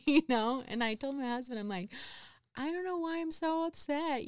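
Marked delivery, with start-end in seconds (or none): 2.5-4.2 mildly whiny complaint. Retold or imitated. Venting to husband.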